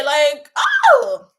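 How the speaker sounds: loud, high shout of pure joy; passionate scream. Real, not acted. Streamer screaming with joy at her viewers. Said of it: "I'm screaming because I'm passionate".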